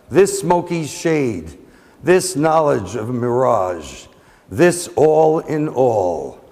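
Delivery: slow, drawn-out verse with falling line endings; poetry reading. Acted. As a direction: recite slowly, pausing after each phrase. Reads a poem aloud.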